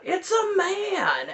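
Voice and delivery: slow drawn-out growl. Retold or imitated. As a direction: growl it out, stretched. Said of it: "McKelty growls out".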